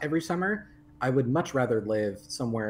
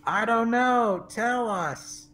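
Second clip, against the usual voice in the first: mock Texan straight man; 10 semitones higher, 3 dB louder, much slower than usual. Playing along with the joke.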